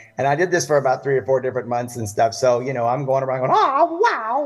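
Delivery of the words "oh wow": very high-pitched cartoon-mouse voice, exclaiming. Retelling presenting commercial ideas at work in a Mickey Mouse voice. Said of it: "doing all these voices of Mickey".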